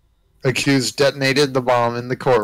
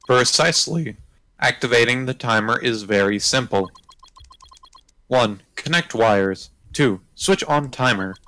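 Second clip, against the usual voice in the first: flat robotic monotone. Acted. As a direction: speak like a machine. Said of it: "robotic voice".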